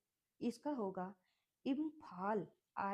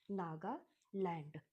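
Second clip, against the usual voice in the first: slow model word; 2 semitones lower, slower than usual. Shown as a demonstration. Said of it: "एन ए जी ए".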